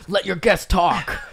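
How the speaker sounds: high, slow heckler's complaint; mock heckle. Podcast listener complaining to hosts, drawn-out mock heckle. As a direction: call it out like a fed-up listener.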